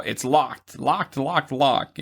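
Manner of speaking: put-on lightly slurred drunk mom; drunken voice. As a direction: drunk voice, repeating locked. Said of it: "in a nice drunken voice".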